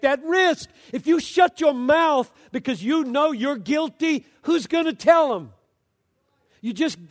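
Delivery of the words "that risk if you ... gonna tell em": preaching shout. Real, not acted. Preacher presses the point.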